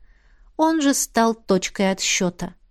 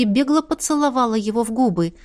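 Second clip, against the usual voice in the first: plain reading voice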